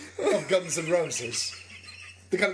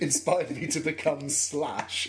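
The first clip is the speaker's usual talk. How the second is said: slow mocking quote; 3 semitones lower, much slower than usual.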